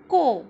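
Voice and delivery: clear, loud syllable model; syllable demo. Shown as a demonstration. Teacher sounding out a syllable for kids, loud and clear. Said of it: "इसकी ध्वनि कैसी हो जाएगी?".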